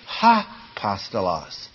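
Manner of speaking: ha apostolos with a breathy h at the start; with an h sound. Shown as a demonstration. Teacher showing the rough breathing mark, ha apostolos. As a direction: put an h sound before apostolos. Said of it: "if it were turned around the other way".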